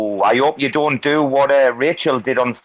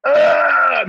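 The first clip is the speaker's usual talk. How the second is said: put-on kid's groan; 12 semitones higher than usual. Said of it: "I'm like".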